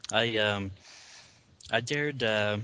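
talking around a piece of candy; chewing taffy while speaking; mouth full. Real, not acted. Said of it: "sorry, I'm eating candy".

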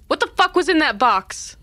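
acted yell of shock. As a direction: cry it out in disbelief, pitch jumping up. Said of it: "is gonna yell".

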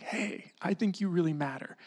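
soft, furtive near-whisper; sneaky hushed voice. Acted. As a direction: act out secretly confiding praise. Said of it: "sneaking out".

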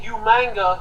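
"Umanga" with a nasal n slipped in before the g; William Regal. Retold or imitated. Mimicking a wrestling personality's way of saying "Umanga" as yoo-MANG-ga. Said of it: "William Regal would definitely say".

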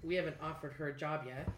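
crackly usb mic cutting out; mic popping out. Real, not acted. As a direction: voice dropping out, faulty mic. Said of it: "Your, your mic keeps popping out".

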